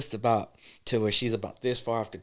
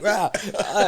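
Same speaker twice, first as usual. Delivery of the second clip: higher mock yelps; pained cry; 6 semitones higher than usual. Imitating the woman slipping on cut-up feet, mock yelps. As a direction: imitate short cries of pain. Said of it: "So she's like".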